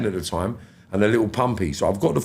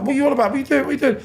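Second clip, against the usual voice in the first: retold alarmed shout; 13 semitones higher, much faster than usual. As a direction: shout it high and baffled. Retold alarm at wife's scream.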